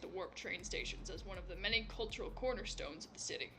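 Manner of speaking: low, even know-it-all lecture; dry encyclopedic voice. Acted. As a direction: recite facts like a textbook. Mirso lectures.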